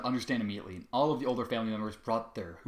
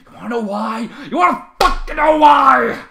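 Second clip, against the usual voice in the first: enraged shout; 13 semitones higher, 18 dB louder than usual. A narrator's reading. Trevor answers his mockers, enraged shout. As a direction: explode back at the crowd.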